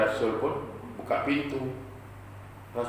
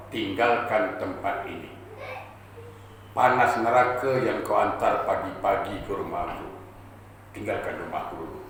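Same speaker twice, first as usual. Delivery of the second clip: low, controlled dismissal; restrained anger; 5 semitones lower, 3 dB quieter than usual. Acted. Prophet ordering the sinner out, angry but never shrieking. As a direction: send him away without raising your voice, fading lower. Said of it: "Cuma Nabi kalau marah taklah pakai mekir".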